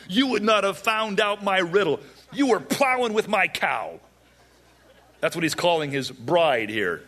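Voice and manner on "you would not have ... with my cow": high-pitched, hammed-up outrage; angry. Samson accusing the groomsmen who solved his riddle, angry. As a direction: rail at them in mock fury. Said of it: "he's angry".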